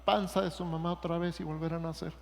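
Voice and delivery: very high, quavering little old man voice, a touch mocking; high-pitched silly old man asking in disbelief; Nicodemo as an old man. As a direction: squeak it out like a baffled old man. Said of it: "Y Nicodemo dijo".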